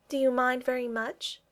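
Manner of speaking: worried. A narrator's reading. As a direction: ask it with gentle concern. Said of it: "she asked worriedly".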